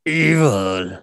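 drawn-out mock-villain word; playful villain growl; evil voice. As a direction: audition your best evil voice. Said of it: "Let me hear your best evil voice".

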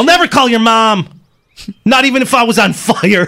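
high, loud acted outburst; angry refusal. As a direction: refuse her at full voice. Acted quarrel with mother.

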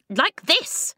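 high, loud, cross retort; snapped. A narrator's reading. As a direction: snap it in a squeaky voice. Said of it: "the voice snapped".

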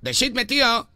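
put-on Castilian Spanish accent; Spain accent. Prankster answering the bank caller, put-on Spain accent. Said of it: "¿Por qué habla así?".

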